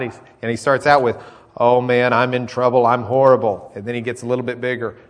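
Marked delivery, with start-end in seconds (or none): 1.6-3.7 dismayed cry. Retold or imitated. Isaiah's cry voiced in sermon.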